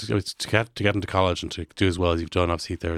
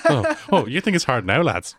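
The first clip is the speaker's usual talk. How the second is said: loud, higher-pitched teacherly warning; mock teacher; 9 semitones higher, 5 dB louder than usual. Host plays a teacher warning fifth years, mock teacher. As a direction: warn the class with hammed-up disbelief. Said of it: "Teacher bingo".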